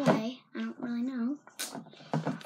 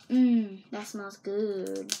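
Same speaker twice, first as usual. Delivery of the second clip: savoring a smell; 3 semitones lower, 3 dB louder, much slower than usual. Real, not acted. Sniffing her new slime.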